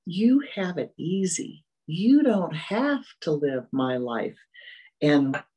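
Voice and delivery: mock indignant complaint, drawn out; retold mental scream. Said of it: "My mind screamed".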